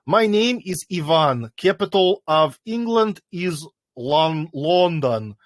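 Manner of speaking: slow, halting learner English; mock beginner reading off a phrasebook; beginner's halting English. Journalist mocked as a language beginner, slow and halting. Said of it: "person comes to visit England".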